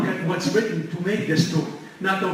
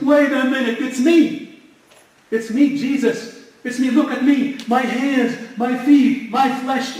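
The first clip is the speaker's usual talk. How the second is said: higher, louder, eager voice of Jesus showing himself; retold risen Jesus; 6 semitones higher, 3 dB louder, slower than usual. Risen Jesus tells the two walking disciples it is him, higher and louder. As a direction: announce yourself urgently, lifted and bright. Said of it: "we said".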